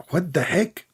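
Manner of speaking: breathy, unvoiced "what the heck"; a disbelieving whisper to himself; whispered aside. Real, not acted. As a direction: mutter it under your breath.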